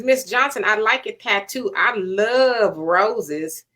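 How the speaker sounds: slow, lingering read of a viewer's comment; reading a chat comment. Retold or imitated. Reading a viewer's flirty chat comment to her co-host, slow and teasing. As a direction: draw out the roses line teasingly. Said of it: "And William says".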